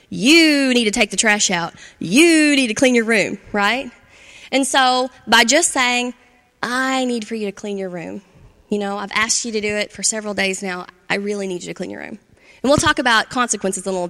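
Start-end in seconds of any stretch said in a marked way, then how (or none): 0.1-3.4 louder, pointing-finger order, YOU pushed hard; bossy command. Shown as a demonstration. Parent ordering a child to clean the room, bossy. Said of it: "the understood finger right there in your forehead". 6.6-12.2 softer, gentle I-statement, I leaned on lightly; ask, don't order; calm request. Shown as a demonstration. Parent asking a child to clean the room, calm and soft. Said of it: "changing the verbiage from you need to I need".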